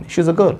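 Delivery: put-on "a" as a light schwa "uh" in "she is a girl"; "a" slipped in lightly before "girl"; unstressed article. Shown as a demonstration. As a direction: say "a" weakly as "uh", no stress. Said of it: "इसमें मैंने कोई जोर नहीं डाला".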